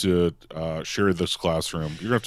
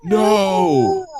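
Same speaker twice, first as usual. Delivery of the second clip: high, loud wailed no; drawn-out pained scream; screamed refusal; 13 semitones higher, 7 dB louder than usual. Acted. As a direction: wail it out as the burning student. Student on fire answers in scream.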